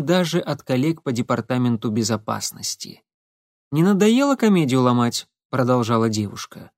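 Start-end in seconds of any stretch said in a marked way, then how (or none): 3.7-5.3 mock scolding. Marina scolding Semyon.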